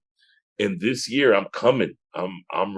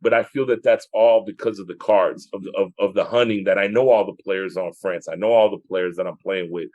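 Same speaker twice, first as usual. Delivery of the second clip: tipsy. Real, not acted. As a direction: talk a little tipsy. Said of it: "I'm, I'm tipsy now".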